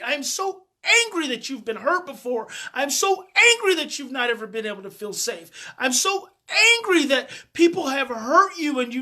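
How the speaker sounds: a mild retelling of anger held back, the high, loud peak on the first "I am so angry"; rising anger aimed at the hurt done to the child; retold anger. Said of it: "I was containing the anger part".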